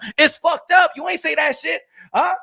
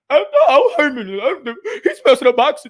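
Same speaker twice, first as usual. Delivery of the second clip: whiny beta male. Pretend. Mocking YouTube boxing creators with a whiny complaint. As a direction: whine it like a crybaby. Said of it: "Listening to these beta".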